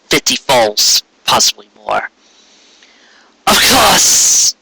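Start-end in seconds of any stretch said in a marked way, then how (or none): 3.5-4.5 lightly voiced higher tyrant queen, amused; Corona's mocking aside. A narrator's reading. Tyrant queen amused by foals' resistance, higher, mocking. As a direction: toss it off as a smug queen. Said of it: "Corona mused aloud".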